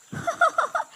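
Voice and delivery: high, loud teasing laugh; mocking laugh. Brother laughing at his crying sister, mocking laugh. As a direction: laugh at the crybaby.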